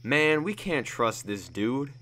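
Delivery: slow angry objection; outraged. Acted. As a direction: spit out the distrust.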